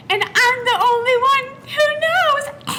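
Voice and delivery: creepy high sing-song, slow and drawn out; serial killer voice. Pretend. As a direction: sing it slowly like a slasher killer taunting victims. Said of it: "She sounds like a serial killer".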